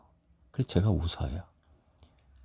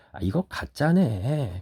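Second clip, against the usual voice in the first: higher, drawn-out disbelief; scoffing doubt; 5 semitones higher, slower than usual. Acted. Onlooker to the proud buyer of gold, scoffing. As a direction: dismiss it slowly as an obvious fake.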